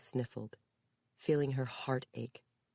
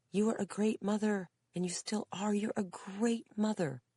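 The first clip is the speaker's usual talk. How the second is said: put-on higher, earnest young woman; reassuring daughter; 8 semitones higher than usual. A narrator's reading. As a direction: reassure her mother gently.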